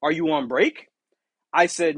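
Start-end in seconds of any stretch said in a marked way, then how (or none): 0.0-0.9 high, mocking manager question. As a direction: mimic the nosy manager. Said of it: "this is your most favorite line".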